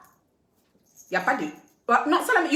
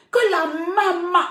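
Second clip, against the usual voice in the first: mock surprise; 7 semitones higher, 4 dB louder, slower than usual. Mimics the blogger's surprise at mum.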